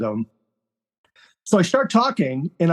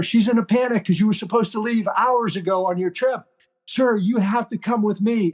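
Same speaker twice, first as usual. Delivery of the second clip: higher pitched, hurried imitation of a flustered young aide; urgent panicked aide; 5 semitones higher than usual. Young aide to the general, worried and higher pitched. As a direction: play the aide who has searched for hours.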